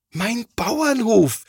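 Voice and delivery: high, slow, stricken cry over the ruined toy; horrified cry. A narrator's reading. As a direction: let the horror stretch out. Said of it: "ruft er entsetzt". (entsetzter, gedehnter Aufschrei)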